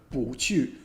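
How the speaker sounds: 不去 with 不 rising, then 去 falling; 不去 as a rise-then-fall tone demo; second tone, fourth tone. Shown as a demonstration. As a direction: lift 不 upward, drop 去. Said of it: "it becomes second tone, fourth tone".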